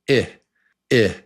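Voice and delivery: short crisp "I" on its own; short I sound. Shown as a demonstration. Teacher drilling the short I with students. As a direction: clip the "I" short. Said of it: "here's the short vowel sound".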